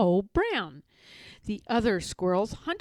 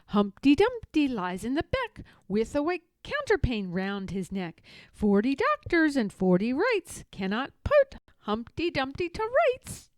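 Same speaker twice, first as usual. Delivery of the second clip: laughing and shouting; 4 semitones higher, 4 dB louder than usual. Acted. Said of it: "laughing and shouting".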